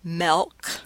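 "milk" said as "melk"; short-e pronunciation. Shown as a demonstration. Lecturer offering students options, "milk" said as "melk". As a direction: say "milk" with the vowel of "bed". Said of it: "a pronunciation like milk".

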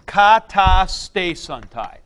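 slow, loud syllable-by-syllable reading. Shown as a demonstration. Teacher showing the class a word from lesson one, syllable by syllable. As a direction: sound out "Kata stesantai" one syllable at a time. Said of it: "We were doing syllables with this".

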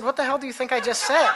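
incredulous retort with a laugh. Retold or imitated. Teacher laughing back at the agent's English question, incredulous.

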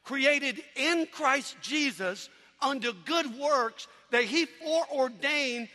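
slow, deliberate verse reading; scripture recitation. Acted.

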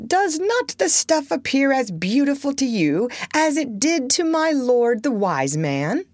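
a hint of a sly trickster; sly weaver. A narrator's reading. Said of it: "asked the thieves".

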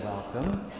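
soft, low, gracious welcome; beautiful voice. Acted. Blessed Mother greeting the newcomers, beautiful soft voice. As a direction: greet gently and serenely. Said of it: "this beautiful voice".

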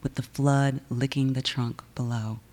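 measured, deliberate poem recital with weighty pauses; poetry reading. Acted. Poet reading her own verse to a live audience, measured and deliberate.

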